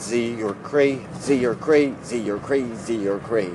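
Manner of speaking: name repeated in an even run; tongue-twister drill; five times fast. Shown as a demonstration. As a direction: loop "Z, you're cray" without stopping. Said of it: "say his name five times fast".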